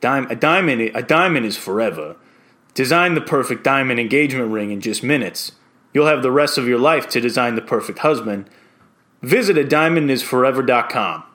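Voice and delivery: quirky character with a New York accent; New York Tony. Shown as a demonstration. Voice-over hopeful reading the diamond ad as a quirky character, New York accent. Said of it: "New York Tony".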